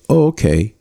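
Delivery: calm acknowledging tone; matching her tone. Shown as a demonstration. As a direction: acknowledge her evenly, no push. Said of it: "I literally said it like that".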